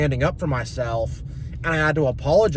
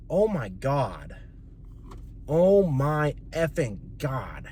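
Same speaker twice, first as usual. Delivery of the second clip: exasperated groan; 6 dB quieter, much slower than usual. Real, not acted. Exasperated at family.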